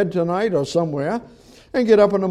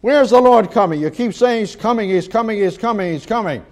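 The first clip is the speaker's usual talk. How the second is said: mocking taunt. Mockers taunting Jeremiah about the Lord coming, mocking. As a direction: taunt it, repeating like a tired refrain. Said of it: "their mocking, their ridicule".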